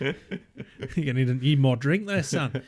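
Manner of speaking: jokey mock Aussie, laughing a little; Australian accent. Rescuer talking to drunk on road, mock Australian accent. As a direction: play along as an Australian stranger. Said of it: "You ended up in Australia".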